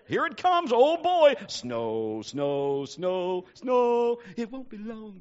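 high, loud giddy exclamations; mock movie excitement. Pastor recalling White Christmas, hammed-up giddy exclaiming. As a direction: ham up the White Christmas moment.

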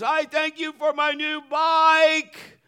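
loud, high, stretched-out holler; top-of-the-lungs boy's prayer; yelling prayer. Acted. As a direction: shout the prayer so the whole house hears. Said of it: "he's yelling at the top of his lungs".

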